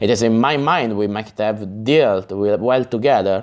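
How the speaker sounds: ordinary delivery, nothing marked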